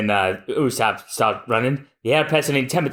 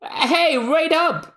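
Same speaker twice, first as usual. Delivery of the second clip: much higher cry to wait; calling out high; much slower than usual. Acted. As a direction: call after them in a squeaky voice. Usopp calling after someone.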